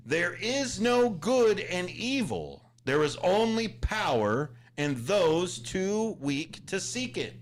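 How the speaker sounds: slow, menacing villain line; slow villain menace. Acted. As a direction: read it like a dark movie villain. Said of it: "That sounds like a hot mic type of".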